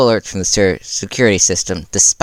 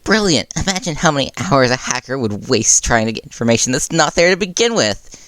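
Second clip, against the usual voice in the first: delighted; 5 semitones higher than usual. Acted. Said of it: "Nezu chittered in delight".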